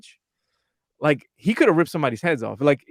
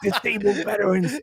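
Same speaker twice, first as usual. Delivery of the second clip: slightly higher imitation of a softened tough guy; changed, calmed-down voice; 4 semitones higher than usual. Calmed-down boxer grabbing a man's shoulder, changed voice. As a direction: lightly mimic a sudden change of voice. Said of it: "his whole voice changes".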